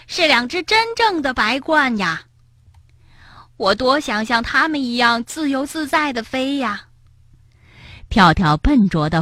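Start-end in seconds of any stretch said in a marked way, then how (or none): 0.1-6.9 high-pitched, wistful wonder; marvelling. A narrator's reading. Frog watches storks, wishing to fly, marvelling. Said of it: "跳跳惊叹道".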